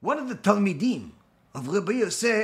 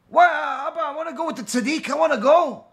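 put-on higher, eager child's plea; pleading son; 6 semitones higher than usual. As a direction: beg to be allowed to go.

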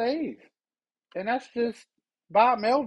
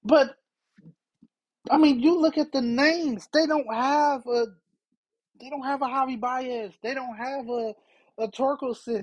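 real exasperated raging; raging rant; 5 semitones higher than usual. Real, not acted. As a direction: vent your frustration at the lineup. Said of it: "I'm sorry I'm raging".

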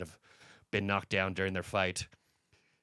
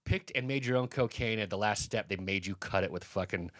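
retold scream; 3 semitones higher than usual. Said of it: "I started screaming".

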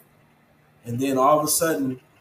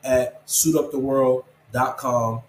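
slow dictation; slower than usual. Real, not acted. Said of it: "you can reach me at".

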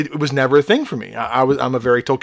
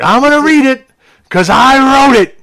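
much higher, louder squeaky gnome voice, slowing on the end; 13 semitones higher, 8 dB louder than usual. Pretend. Host teasing his co-host in a high, loud gnome voice. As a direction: pipe it up like a cheeky little gnome. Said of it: "Just give us some gnome voice".

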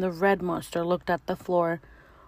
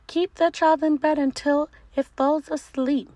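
high, loud squeak; squeaky monster; 8 semitones higher, 6 dB louder than usual. Acted. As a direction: squeak it out eagerly. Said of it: "bounced and squeaked".

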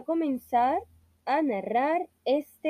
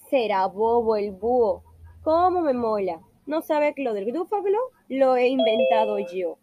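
louder, pleased with itself; gloating mouse; 4 dB louder than usual. Acted. The mouse gloats that the fox fell for the lie, louder and delighted. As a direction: crow over the trick.

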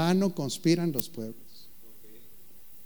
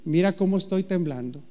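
mock fear; 3 semitones higher than usual. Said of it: "Y luego dice Dios".

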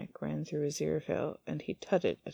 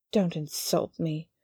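spat; slower than usual. Acted. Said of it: "the angel spat".

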